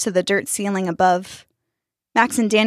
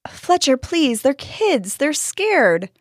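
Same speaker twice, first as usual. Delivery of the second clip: higher-pitched, tender appeal; loving plea; 7 semitones higher, much slower than usual. A narrator's reading. Gardener pleading with Fletcher for the children, loving. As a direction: plead gently for the kids. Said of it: "said with his usual loving tone".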